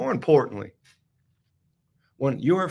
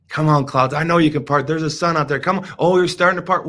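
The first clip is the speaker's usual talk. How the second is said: loud urging; 7 dB louder than usual. Retold or imitated. Driver urging the clouds aloud, louder and eager. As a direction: call it out louder, willing the clouds.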